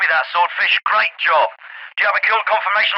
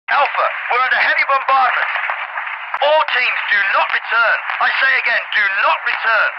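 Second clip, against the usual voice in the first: raised-pitch, emphatic emergency orders; urgent radio warning; 3 semitones higher than usual. Acted. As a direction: warn all teams off under bombardment. Warns teams during bombardment.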